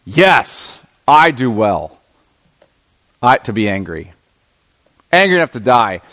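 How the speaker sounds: mildly acted emphatic anger, in short separated bursts; a touch of cursing emphasis, pausing between phrases. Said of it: "sort of this emphatic, almost cursing".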